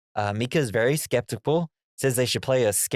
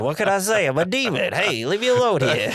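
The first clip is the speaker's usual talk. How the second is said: demon voice; 4 semitones higher than usual. Retold or imitated. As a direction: play a goofy demon brushing teeth. Voicing the demon in the movie.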